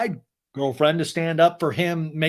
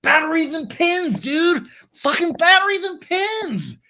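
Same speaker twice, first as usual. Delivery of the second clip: very high, loud, dopey bro voice; goofy guy rambling nonsense, high and loud; Tom impression; 7 dB louder, slower than usual. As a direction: blurt it like a clueless bro. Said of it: "Tom's just going".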